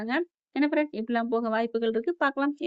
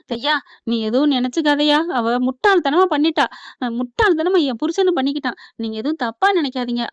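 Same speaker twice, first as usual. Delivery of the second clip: raised, insistent retold plea; voiced apology, loud and urgent; earnest apology; 3 semitones higher, 6 dB louder than usual. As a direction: plead loudly on a relative's behalf. Apologising for a relative's mistake.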